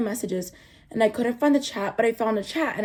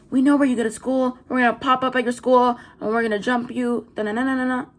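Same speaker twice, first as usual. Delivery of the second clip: mocking threat; 3 semitones higher, 3 dB louder than usual. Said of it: "She just had to tell you".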